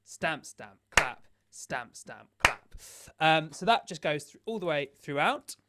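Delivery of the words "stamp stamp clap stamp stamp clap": rhythmic count of the beat; spoken percussion pattern, steady. Shown as a demonstration. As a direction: say each word evenly on the beat. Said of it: "There's no off beat".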